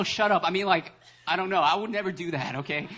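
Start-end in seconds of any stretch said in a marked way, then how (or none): 0.0-0.4 mild mock yell, slightly raised; retold yell. Preacher retelling a funeral outburst, toned-down yell. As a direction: quote a yell without really shouting. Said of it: "walk into a funeral and yell".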